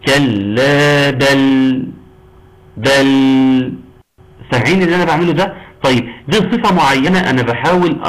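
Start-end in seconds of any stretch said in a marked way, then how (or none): 0.1-3.7 slow recitation of بل; tajweed demo of the lam. Shown as a demonstration. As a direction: stretch the لام in بل, neither clipped nor smeared. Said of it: "شوفوا كده".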